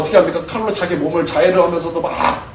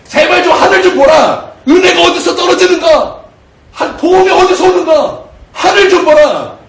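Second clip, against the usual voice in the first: higher and louder, begging; pleading shout as God; 11 semitones higher, 7 dB louder than usual. Retold or imitated. God pleading with the upturned pig, in a shout. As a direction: cry out like God begging his creature to look up. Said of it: "하나님께서 그러시는 거예요".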